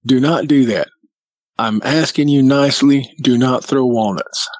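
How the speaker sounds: firm, measured retold telling-off; mild scolding with controlled insistence; getting after them. Man asking Bigfoots nicely but firmly, getting after them. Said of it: "I was getting after them".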